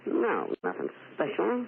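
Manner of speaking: a hint of a brassy floozy purring; Mae West impression. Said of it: "you're terrific".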